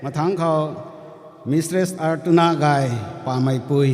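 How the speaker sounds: formal name announcement; calling out names. Real, not acted.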